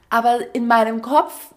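normal talking voice

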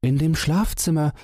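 In dem Schlafzimmer in a high squeaky mouse voice, falling at the end; a tiny mouse fearing the bedroom; sad little mouse. A narrator's reading. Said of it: "rief das Mäuseken traurig".

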